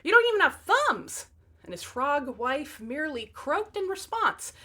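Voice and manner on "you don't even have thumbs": high, loud mock wail; overdone despairing whine; mock bawling, much higher and louder; hammed-up bawling. A narrator's reading. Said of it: "he bawled".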